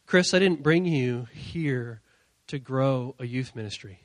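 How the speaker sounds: slow, low, measured delivery; calm voice of God. Retold or imitated. God answers the pastor in the car, calm and deliberate. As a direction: state it clearly and calmly. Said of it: "he said very clearly this to me".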